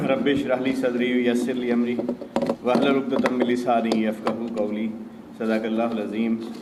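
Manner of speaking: measured Arabic prayer recitation. Real, not acted. Speaker opens his conference address with a prayer, reciting. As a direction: recite an opening prayer in even, formal phrases.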